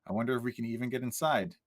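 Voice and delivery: flat monotone, no melody. Acted. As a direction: say it in a dead monotone. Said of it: "I say in a monotone voice".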